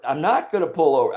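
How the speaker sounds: mildly heated refusal; retold defiant refusal. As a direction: dig in, retelling an argument. Retold quarrel in the car.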